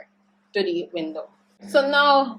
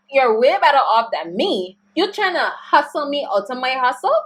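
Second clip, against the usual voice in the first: indignant rant; 5 semitones higher, 4 dB louder than usual. Acted. Ranting at the absent debtor.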